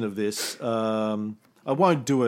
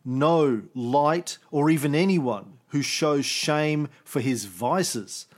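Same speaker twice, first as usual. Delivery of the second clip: dramatic poem reading; 2 semitones higher than usual. Acted. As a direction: declaim it like a prophet's grieving poem. Reads his translated poem aloud.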